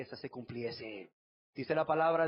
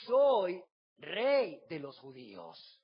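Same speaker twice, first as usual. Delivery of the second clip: priests demanding; 6 semitones higher, much slower than usual. Acted. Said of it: "Dijeron a Pilato los principales sacerdotes".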